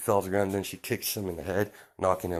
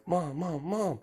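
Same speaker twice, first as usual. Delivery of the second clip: put-on high-pitched kid calling for mom; eager, repeated call in a raised voice; excited calling; 8 semitones higher, slower than usual. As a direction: pester a parent excitedly, voice pitched up. Excited child calls his mother.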